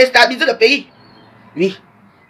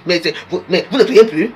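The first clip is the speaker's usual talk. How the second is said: chuckling through the words; laughing; 4 semitones lower than usual. Real, not acted. Speaker teasing listeners who stopped praying, laughing. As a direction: laugh while you tease them.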